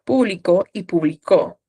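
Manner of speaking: público then publicó, stress moving from PÚ to CÓ; teacher contrasting stress placement; stress shift shown. Shown as a demonstration. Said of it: "también puede ser con público".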